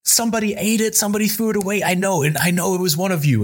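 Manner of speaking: high-pitched outraged rant without raising volume; squeaky-high mock accusing tirade; retold freak-out. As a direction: mimic a boss going absolutely crazy. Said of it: "he just went absolutely crazy".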